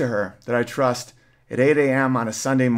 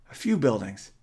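softer, lower, trailing and confused; dazed, lost voice; 3 semitones lower, 5 dB quieter than usual. Retold or imitated. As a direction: sound lost, unsure where you are. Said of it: "She sounds like a different person".

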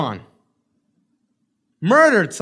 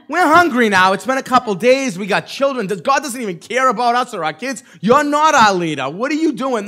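higher, worked-up mock grumbling; whining complaint; 4 semitones higher, 4 dB louder than usual. Hungry Israelites turn on Moses, acted whining complaint. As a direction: act out a crowd pestering its leader. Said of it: "they started to whine and complain again".

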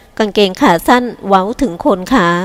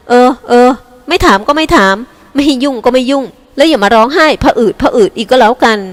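louder, clipped huffy comeback; fine, have it your way, stung; irritated retort; 3 semitones higher, 3 dB louder than usual. Acted. Older sister snapping back at her younger sister, irritated.

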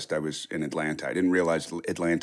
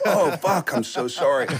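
much higher startled apology, laughing at the end; embarrassed surprise; 6 semitones higher, 3 dB louder than usual. Retold or imitated. Realizing the man is his gardener, flustered laughing apology. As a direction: caught out and sheepish, laughing it off.

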